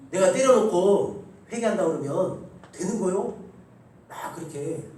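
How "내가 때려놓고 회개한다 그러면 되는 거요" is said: louder, slow indignant demand; imitating angry child. Schoolchild confronting the pastor about forgiveness, mock angry. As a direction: retell the child's furious challenge, voice raised. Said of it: "막 화를 내면서 저를 따지듯이".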